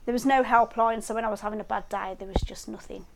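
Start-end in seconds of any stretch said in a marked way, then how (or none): 2.2-3.1 whispered. Real, not acted. Recalling having no support.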